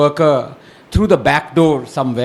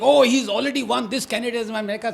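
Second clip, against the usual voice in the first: higher-pitched mock excitement, quickening at the end; retold excited outburst; 6 semitones higher, faster than usual. Retelling the counting-day anchor going ballistic, mock excited. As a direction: imitate an anchor getting carried away. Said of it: "Navika went absolutely ballistic".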